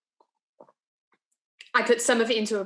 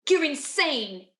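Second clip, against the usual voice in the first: appalled accusation; 3 semitones higher, slower than usual. Acted. Graham's appalled reaction, acted.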